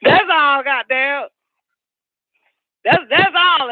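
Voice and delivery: breaking up laughing mid-line. Real, not acted. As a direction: talk through a real laughing fit. Laughing fit after joke.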